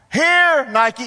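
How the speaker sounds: high, loud call across the backyard; calling the dog. Acted. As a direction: summon a dog from the back door. Calls his dog from door.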